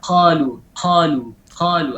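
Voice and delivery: "qalu" with a puff of air on the q; added hams. Shown as a demonstration. Teacher shows the fault in qaf, airy release. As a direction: let breath escape after the q in "qalu". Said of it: "Ada hamsnya".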